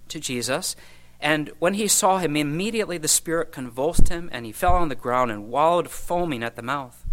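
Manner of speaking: lively Bible reading, rising on the dialogue; scripture reading. Acted. Preacher reading the Gospel story to the church, animated. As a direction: read the passage aloud with feeling. Reads Mark 9 passage aloud.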